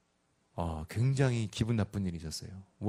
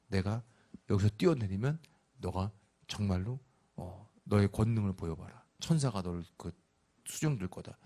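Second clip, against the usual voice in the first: tempting Satan; 5 semitones lower, 6 dB quieter than usual. Retold or imitated. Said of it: "사단이 ... 다가와서".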